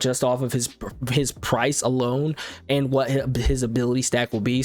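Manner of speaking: tripping over words and restarting; stuttering. Real, not acted. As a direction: stumble on small words mid-sentence, then push on. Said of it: "I'm stuttering and stammering so bad".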